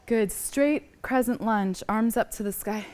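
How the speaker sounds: breathless, slow between words; out of breath. Real, not acted. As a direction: speak while winded from the pose. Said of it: "Whew, I'm out of breath".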